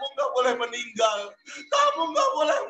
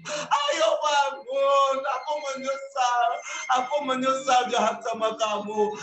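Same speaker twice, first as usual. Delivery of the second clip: crying remorse. Acted. Zami grieving his dead friend, remorseful. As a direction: sob out the regret to a dead friend. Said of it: "Zami tambah nangis makin kenceng".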